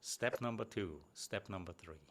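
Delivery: bold, direct promise of three steps; direct and confident. Shown as a demonstration. Coach shows a speaker a direct opener, confident and firm. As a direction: say it straight, no hedging, counting off each step. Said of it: "You can be way more direct here".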